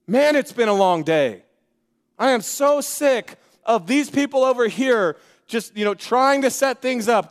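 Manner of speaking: lightly voiced tired governor; a touch of weary Pilate. Weary governor venting to himself about the crowd. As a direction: sigh it out, worn and fed up. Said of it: "frustrated tone of Pilate's voice".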